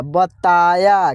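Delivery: बताया stretched very slowly; slowly drawn out. Shown as a demonstration. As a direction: sound out बताया for the class. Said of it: "क्या होगा?". (बताया को धीरे खींचकर बोलें)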